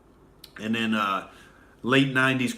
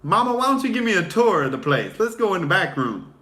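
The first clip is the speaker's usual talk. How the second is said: smooth suitor; 8 semitones higher, 5 dB louder than usual. Retold or imitated. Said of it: "It's like".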